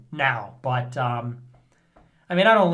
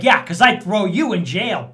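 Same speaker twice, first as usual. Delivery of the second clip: mock threat; 3 semitones higher, 7 dB louder than usual. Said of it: "he's like".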